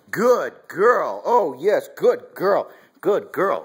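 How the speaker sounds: high, loud gushing praise; lavish the puppy with happy praise; dog praise. Real, not acted. Owner rewarding puppy's retrieve with loud high praise. Puppy returns bird in fetch.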